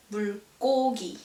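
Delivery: 물고기 with a tense, strengthened G, as 물꼬기; 물고기 with a strong middle G; hardened second consonant. Shown as a demonstration. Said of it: "following consonant are pronounced a bit more stronger".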